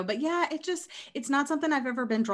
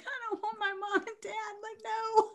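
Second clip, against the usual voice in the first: high-pitched, soft, plaintive little voice; mock upset plea; 13 semitones higher, 5 dB quieter than usual. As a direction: plead like you can't bear the thought, hammed-up. Voices herself upset about parents dying.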